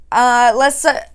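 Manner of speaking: halting, stumbling start; stuttering. Real, not acted. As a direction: trip over the first words. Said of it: "I was stuttering for a minute".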